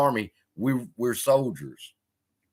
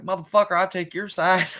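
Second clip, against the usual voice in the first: mock exasperation; 7 semitones higher than usual. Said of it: "I'm like".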